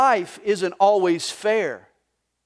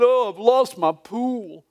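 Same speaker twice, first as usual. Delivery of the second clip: mock sobbing Snoopy; slower than usual. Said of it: "and he's sobbing".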